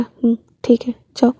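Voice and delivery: whispered, tender; father reassuring the kids, whispered; gentle reassurance. Acted. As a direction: hush the children kindly.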